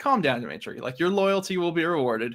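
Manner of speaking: ordinary talk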